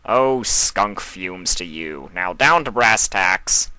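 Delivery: slow, relishing glee; too gleeful. Acted. Discord opening the villains' meeting, a mock gleeful relish. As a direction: savour the mischief a bit too much. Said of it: "said a little too gleefully".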